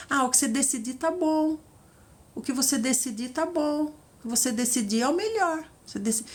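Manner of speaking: mildly limp, agreeable mock sigh; passive bride. Passive bride answering the groom, mild mock sigh. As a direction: shrug it all off onto the groom. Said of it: "quem é que gosta de uma pessoa passiva dessa".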